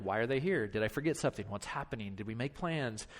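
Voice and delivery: quietly puzzling over why the friend came; inner worried thoughts. Pretend. Pastor voicing a host's private worries, quiet and low. Running through your mind.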